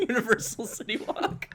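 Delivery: usual speaking voice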